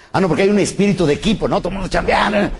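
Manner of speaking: client enthousiaste. Retold or imitated. Autre client imité, enjoué.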